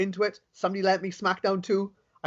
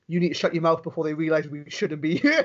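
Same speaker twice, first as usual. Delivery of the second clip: quoting friend, laughing. Retold or imitated. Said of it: "he goes".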